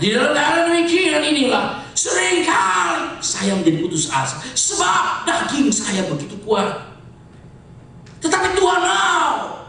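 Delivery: emphatic preacher's delivery with surging pitch; forceful preaching. Real, not acted. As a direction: preach with stretched, weighty key words.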